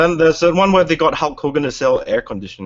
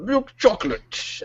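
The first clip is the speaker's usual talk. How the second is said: higher, slow, dreamy ad read; mock ad voice; 9 semitones higher, slower than usual. Recalling Cadbury ad to friends, mock crooning read. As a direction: croon like a chocolate ad. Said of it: "the ones where they're like".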